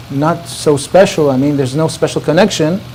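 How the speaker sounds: humble reply. Retold or imitated. Coffee server answering the scholar about God, humbly. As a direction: lightly play a modest man playing himself down.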